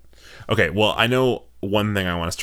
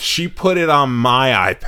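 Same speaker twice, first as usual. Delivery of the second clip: grandma; 6 semitones higher, 7 dB louder than usual. Retold or imitated. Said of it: "'cause she says".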